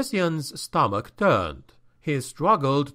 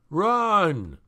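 shouted warning; 5 semitones higher than usual. Acted.

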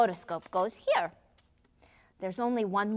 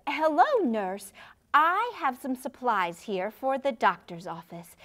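ordinary talk

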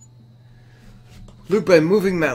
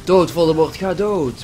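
yelling at boss; 3 semitones higher, 4 dB louder, slower than usual. Real, not acted. Shouting at Voldemort in fight.

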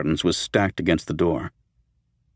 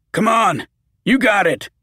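high, urgent cheering on; encouraging; 11 semitones higher than usual. A narrator's reading. Roger urges Peter hauling the cart, high encouragement. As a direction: push him on, higher and keen. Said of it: "Roger encouraged Peter".

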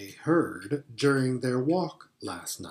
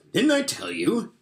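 gleeful; 10 semitones higher than usual. Acted. Beaver gleeful, told them so.

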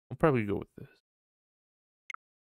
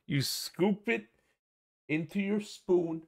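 put-on higher and slow, as if to a small child; mock patient explaining; 7 semitones higher, slower than usual. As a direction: spell it out slowly and sweetly, talking down. Mock explaining how to eat chili.

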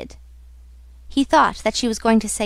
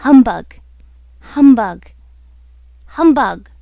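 loud, emphatic shouts at usual pitch; shouted insult; 8 dB louder than usual. Acted. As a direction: hurl the insult into the dark, each one separate. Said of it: "Thrice over he shouted".

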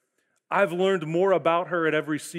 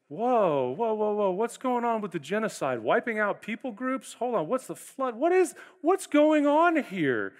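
mock alarmed disbelief; 4 semitones higher than usual. Reader balks at scripture's violence.

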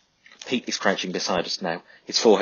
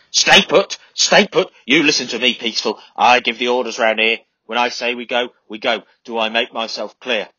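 bellowed orders, high and loud; sergeant shouting; 4 semitones higher, 8 dB louder than usual. A narrator's reading. Sergeant Hanley shouting orders at the men, furious bellow. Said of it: "shouting at us".

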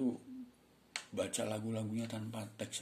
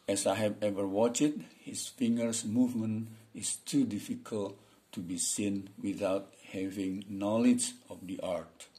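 slow, carefully intoned English reading; expressive reading; slower than usual. Shown as a demonstration. Teacher reads an English opinion text to students, slow and intoned. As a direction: read each phrase out deliberately with intonation. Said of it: "Saya baca nih dengan intonasi".

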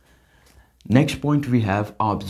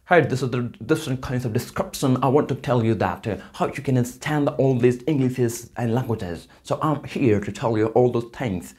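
British accent; 3 semitones higher than usual. Shown as a demonstration. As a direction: put on a bit of British English. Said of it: "British people speak like this".

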